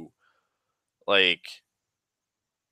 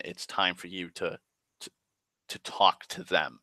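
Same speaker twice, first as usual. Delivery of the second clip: serene; 2 semitones lower, 5 dB quieter than usual. Retold or imitated.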